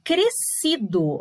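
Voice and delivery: "Crescido" devagar, SC soando como um só C; SC com som único. Shown as a demonstration. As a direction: diga "Crescido" pausado, sem dois sons em "sc". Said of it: "tem um som de C". ("Crescido" lento, um som de S no meio)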